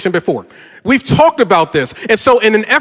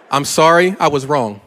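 sincere apology; 4 semitones lower than usual. Shown as a demonstration. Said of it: "Let me show you how it's done".

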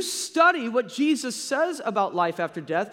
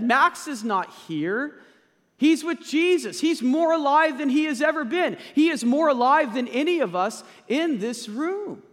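raised, higher and louder, proclaiming; fervent preaching; 5 semitones higher, 4 dB louder than usual. Real, not acted. Pastor proclaims to the congregation, raised and louder. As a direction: preach it out with full conviction.

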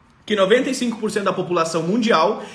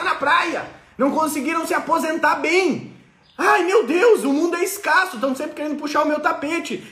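mock dramatic "ai meu Deus"; scarcity complainer; 2 semitones higher than usual. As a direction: moan that the world is stingy. Acted scarcity mindset voice.

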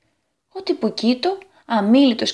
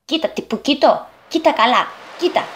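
higher, urgent character voice; anxious; 5 semitones higher than usual. Acted. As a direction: urge the friend to look, with mild anguish. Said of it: "είπε με αγωνία". (με αγωνία)

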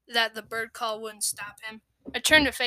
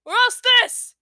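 much higher, loud playful cry; high loud triumphant shout; gleeful shout; 13 semitones higher, 12 dB louder, slower than usual. Acted. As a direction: yell it as you pounce. Brother fox pounces playfully.

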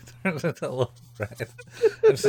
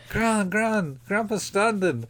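put-on high-pitched child calling out; mock excited calling; 11 semitones higher, slower than usual. Daughter calling Gran as Grandpa stands, mock excited. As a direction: imitate calling the family in amazement. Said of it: "the daughter is like".

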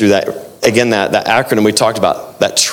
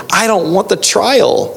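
reluctant believer; 7 semitones higher, slower than usual. Retold or imitated. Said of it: "we like".

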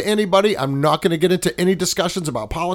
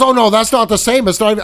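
mock flustered denial; 4 semitones higher, 5 dB louder than usual. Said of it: "He goes".

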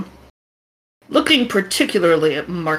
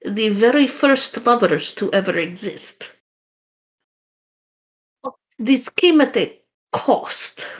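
put-on Russian accent. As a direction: tell the legend gravely, Russian accent. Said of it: "the shaman's gonna sound a lot like the guy you just talked to".

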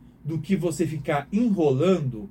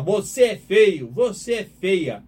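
slow, louder mock scolding of a child; mock scolding insult; 4 semitones higher, 6 dB louder, much slower than usual. Parent scolding a child, slow and loud mock insult. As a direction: spit it at the child, slowly and harshly.

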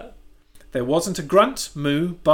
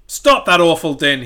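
crowing rooster; 8 dB louder than usual. Acted. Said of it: "he crowed".

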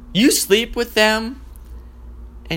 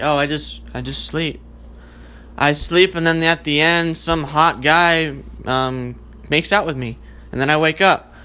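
sleepy actress; 3 semitones lower than usual. Retold or imitated. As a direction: answer drowsily, half asleep. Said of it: "Sleeping Beauty actress answers".

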